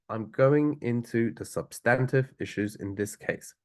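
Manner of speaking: I'm going into the substantive issues in this case said slowly; slow down to give this line weight. Shown as a demonstration. Teacher replaying the important line, said slowly. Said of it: "Again, a bit more important".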